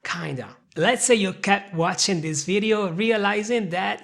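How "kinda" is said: kinda said softly as one word; slow kinda demo. Shown as a demonstration. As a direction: model the word kinda, softer. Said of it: "you're gonna say kinda".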